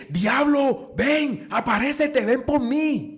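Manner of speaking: hammed-up child yelling for the devil; mock tantrum scream. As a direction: scream it like a spoiled brat on the floor. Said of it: "empezaba a gritar y que".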